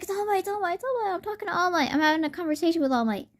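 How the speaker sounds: imitated giddy inner freak-out. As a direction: squeal inwardly over your idol. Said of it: "freaking out on the inside".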